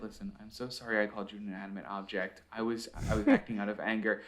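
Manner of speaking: quiet mock contrition after an outburst; retold apology. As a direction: imitate a husband backing down, quietly. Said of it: "literally apologize to his wife".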